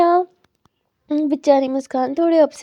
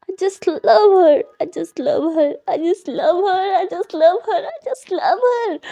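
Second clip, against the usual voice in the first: tender repetition; 2 semitones higher, much slower than usual. Acted. Character repeats lovingly, tearful.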